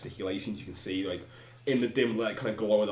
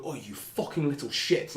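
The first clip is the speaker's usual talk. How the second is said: Cockney; 4 semitones higher, slower than usual. Acted. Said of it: "the Cockney now".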